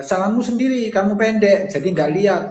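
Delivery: high, mildly scolding you-statement; mock blaming. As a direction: pin the blame on them, half-played. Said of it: "sering menyalahkan". (menyalahkan dengan nada tinggi, setengah bercanda)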